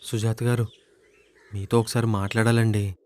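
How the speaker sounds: low, soft, hesitant request; timid appeal. Acted. Suitor begging a word with Sujatha, timid and low. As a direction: ask meekly for a hearing.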